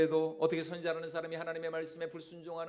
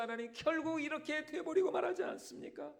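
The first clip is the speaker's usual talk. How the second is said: huffing complaint; 3 semitones higher, 4 dB louder than usual. Acted. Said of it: "막 씩씩거리면서 하나님께 이렇게 대들고".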